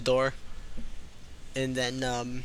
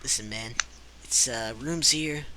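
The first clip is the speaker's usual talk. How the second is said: sly lowdown innkeeper; shady innkeeper. Acted. GM voices innkeeper, low and soft.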